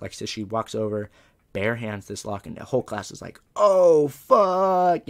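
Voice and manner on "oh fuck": loud, high, drawn-out mock horror; big stretched-out shout of dismay; freaking out. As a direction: imitate a whole class erupting in disgust. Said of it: "like, starts freaking out".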